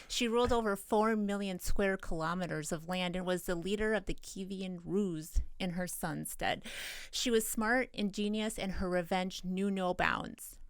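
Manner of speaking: big dramatic trailer-style intro. Pretend. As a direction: narrate it like a movie trailer. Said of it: "that's my dramatic voice".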